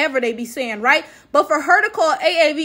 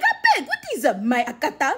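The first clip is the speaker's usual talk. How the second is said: mock Nigerian accent. Vlogger ridiculing the idea of Black Americans using Nigerian slang. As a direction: exaggerate the slang mockingly. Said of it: "be walking around like".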